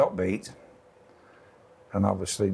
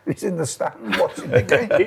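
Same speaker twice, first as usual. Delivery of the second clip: mock Uruguayan accent; 7 semitones higher, 4 dB louder than usual. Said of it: "You can do the accent better than me".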